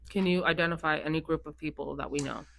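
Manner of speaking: talking while eating chips; words between crunchy bites; crunching chips. Real, not acted. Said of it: "Also, I'm eating chips".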